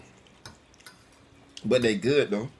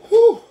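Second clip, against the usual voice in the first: hot-mouth woo; 12 dB louder than usual. Real, not acted. Spicy noodle burn.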